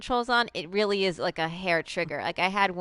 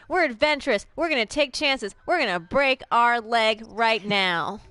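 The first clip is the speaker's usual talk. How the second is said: mock heroic; 4 semitones higher, 4 dB louder than usual. Mock bold declaration.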